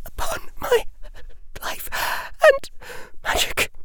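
halting, breathy whisper; faltering whisper. A narrator's reading. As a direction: falter through each word. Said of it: "Hermione's faltering voice said".

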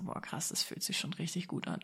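whispered, breathless awe; awed whisper. Retold or imitated. Standing by the car at the view, whispered awe.

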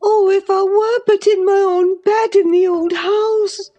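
high, bitter and yearning; bitter longing. A narrator's reading. Catherine longs for home, bitterly. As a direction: ache for the old house. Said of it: "she went on bitterly".

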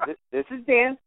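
high, small imitated phone voice; little voice. Musician answering an unknown caller, imitated little voice. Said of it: "this little voice goes".

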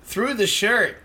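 ribbing a friend about dress code; mock lecture. Real, not acted. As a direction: lay down the rule laughing.

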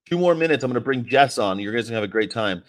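normal talking voice

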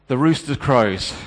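The rooster crows said firm, loud and slow; stark announcement. Acted. Peter hearing the rooster, stark and loud. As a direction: land "The rooster crows" as a hard verdict. Rooster marks his betrayal.

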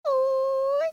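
a high British Oi. Pretend.

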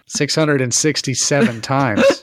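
laughing. Real, not acted. Joking through laughter.

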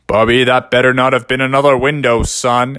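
a hint of a warning dad; stern dad. A narrator's reading. Dad calling from next room.

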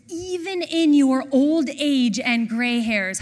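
loud, slow, emphatic verse reading; scripture proclamation. A narrator's reading. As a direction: proclaim the verse slowly and forcefully.

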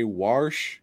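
"warsh" with an R slipped in before the sh; intrusive R. Retold or imitated. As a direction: say "warsh" to rhyme with "marsh". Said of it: "motherfuckers who say".

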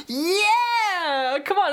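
high, drawn-out Scottish cheer; a cringey compère egging on the kids in Scottish; cheesy Scottish hype. Retold or imitated. Singer rousing an unimpressed crowd, in a cheesy Scottish accent. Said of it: "like this absolute, like, complete idiot".

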